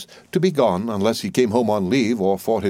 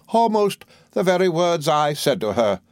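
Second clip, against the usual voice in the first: a hint of a fussy, self-important old lady, pitched higher; lightly voiced old mother-in-law; 8 semitones higher than usual. The old soldier pressing her point on the doctor, lightly voiced. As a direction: play the bossy mother holding forth, higher.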